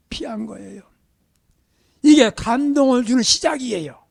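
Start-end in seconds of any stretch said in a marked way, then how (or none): 0.1-0.8 hushed, softer whispered point. Acted. Preacher whispering the lesson to the congregation. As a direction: drop to a secret whisper.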